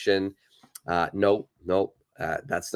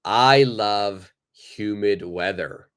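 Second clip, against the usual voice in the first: slow example reading; slower than usual. Shown as a demonstration. Teacher reads example slowly.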